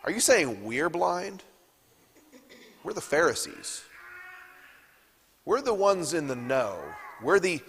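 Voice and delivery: lightly voiced indignant Pharisee; sarcastic Pharisees. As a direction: scoff as a smug expert who feels insulted. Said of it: "a sarcastic tone".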